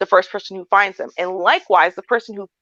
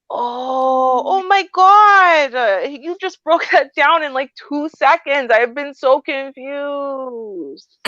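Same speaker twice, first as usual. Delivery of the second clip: gushing gratitude; 4 semitones higher, much slower than usual. Shown as a demonstration. Praising the agent who helped, gushing and amazed. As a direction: overdo the relief and praise. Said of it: "and I go".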